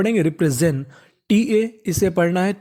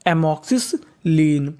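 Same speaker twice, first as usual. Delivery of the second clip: slow careful reading; 3 semitones lower, much slower than usual. Shown as a demonstration. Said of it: "तो पूरी meaning बन गई".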